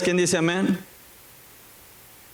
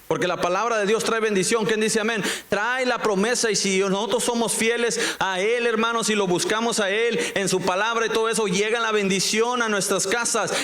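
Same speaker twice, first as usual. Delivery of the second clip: prédica en tono más agudo y seguido; prédica enfática; 5 semitones higher than usual. Real, not acted. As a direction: exhorta a la congregación con la voz más alta de tono. Predica con tono elevado. (predicación animada y aguda)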